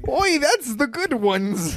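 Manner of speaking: put-on high, slow Jewish accent; hammed-up Jewish accent. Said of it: "this fucking Jewish accent".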